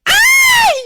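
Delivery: a high shriek of delight; surprised shriek. Real, not acted. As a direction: squeal at the news of the mayor. Shrieks hearing Mayor comes. (napigsa a sigaw ti kinasdaaw)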